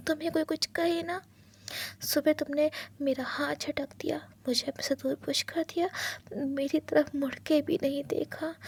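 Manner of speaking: hushed, hurt husband begging for an answer; husband begging his partner not to leave; pleading husband. Acted. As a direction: plead softly, close to tears. Wang's pleading lines.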